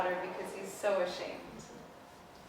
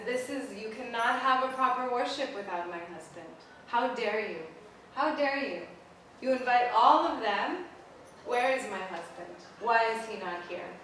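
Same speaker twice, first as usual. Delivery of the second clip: indignant storyteller's fury, moderately raised; furious; 2 semitones higher, 3 dB louder than usual. Acted. Daughter confronts her father over the snub, furious. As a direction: challenge him, building to an outraged peak on ALL. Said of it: "She gets furious".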